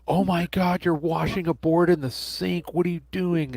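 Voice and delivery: high, outraged mock gasp at the viewer; shocked commenter. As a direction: squeal it like a scandalised fan. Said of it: "the comments of people like".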